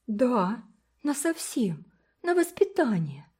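eager. A narrator's reading. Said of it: "сказала Уна горячо".

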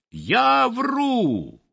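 sparrow sputtering in fury; furious yelling. A narrator's reading. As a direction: sparrow yelling at the sweep, choking with rage. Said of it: "орал Воробей Воробеич".

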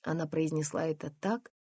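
plain reading voice

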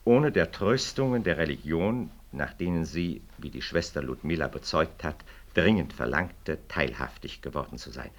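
measured, official reading of a document; formal reading aloud. Acted. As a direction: read the petition out like an official notice. Continues reading interpellation.

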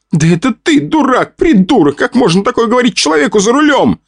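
high, indignant scolding; scolding yell. A narrator's reading. Vika, driving, scolds her fiancé in a high indignant cry. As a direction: scold him sharply from behind the wheel. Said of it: "ругалась она".

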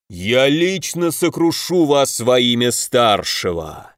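slow, grand villain oration; fiery speech. Acted. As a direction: proclaim it like a fanatical lord. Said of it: "продолжал свою пламенную речь".

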